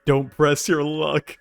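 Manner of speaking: menacing character line. Retold or imitated. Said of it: "He's like".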